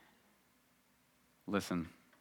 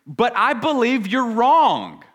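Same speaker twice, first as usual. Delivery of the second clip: higher and louder, insistent Peter; emphatic protest; 11 semitones higher, 8 dB louder than usual. Acted. Peter insisting to Jesus he is right, loudly emphatic. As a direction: Peter overriding his teacher with certainty. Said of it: "But Peter said emphatically".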